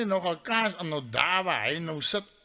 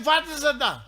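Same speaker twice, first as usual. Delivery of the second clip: raised, louder question; calling out; 7 semitones higher, 4 dB louder than usual. Acted. Storyteller asks his friend in the stand, calling out. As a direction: call the question up to him. Shouted exchange across stadium.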